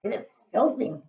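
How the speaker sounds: talking through a mouthful; spluttering round a bite; mouth full. Acted. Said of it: "speaking with his mouth full".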